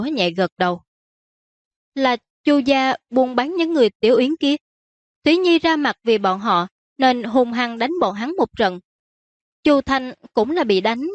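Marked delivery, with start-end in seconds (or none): 1.9-11.0 higher-pitched daughter justifying her friend; explaining princess. Acted. Princess telling her father about the fight, justifying. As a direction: explain in a raised-pitch, insistent voice.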